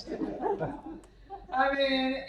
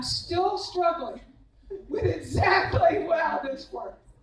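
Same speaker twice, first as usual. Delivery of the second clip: slow, laughing through the words, louder; 4 semitones higher, 4 dB louder than usual. Real, not acted. Coach telling the banquet crowd, laughing out loud. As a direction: still cracking up at the memory.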